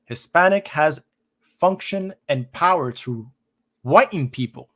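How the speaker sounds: measured read-aloud in short phrases. Real, not acted. Streamer reads out a critique of the label, reading aloud. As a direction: read the quoted passage out with emphasis.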